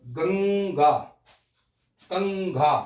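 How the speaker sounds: गंगा and कंघा said slowly, each nasal clearly sounded; careful pronunciation. Shown as a demonstration. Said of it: "अब आपको बोलने में आसानी हो जाएगी". (गंगा और कंघा का साफ़ उच्चारण)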